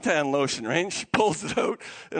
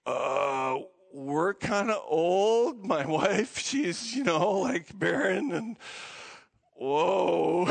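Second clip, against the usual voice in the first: doubtful Zachariah; 4 semitones lower, much slower than usual. Acted. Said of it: "Zachariah's like".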